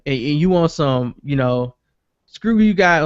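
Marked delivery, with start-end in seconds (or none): 2.3-3.0 higher and louder bratty cartoon kid whine; a light take on Cartman storming off; Cartman impression. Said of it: "on some Cartman".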